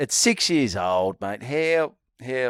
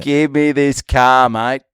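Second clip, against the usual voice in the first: loud, slow, drawn-out demand; hammed-up plea to the salesman, stretching every word; acted eager demand; 3 semitones higher, 9 dB louder, slower than usual. Acts out eager demand to buy.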